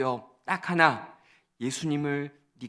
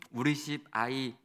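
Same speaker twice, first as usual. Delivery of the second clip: ordinary talk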